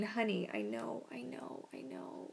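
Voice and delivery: fading soft comfort into a whisper; tender shush; soothing hush. Real, not acted. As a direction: shush the dog gently. Calming dog again.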